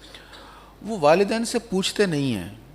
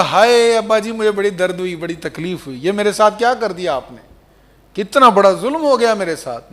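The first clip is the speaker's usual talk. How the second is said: high, loud, hammed-up wail of grievance; mock anguished complaint; 5 semitones higher, 5 dB louder than usual. Son imagined complaining to father of pain, anguished. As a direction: wail as if badly wronged.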